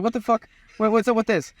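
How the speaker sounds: high, indignant "what the fuck"; retold outraged shout. Confronting the guy walking off with their camera, high indignant disbelief. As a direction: call out the thief in disbelief.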